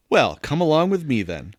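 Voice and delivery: put-on Southern gentleman accent; lightly drawled Southern accent. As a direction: coax along as a Southern gentleman. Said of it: "Kind of a southern gentleman".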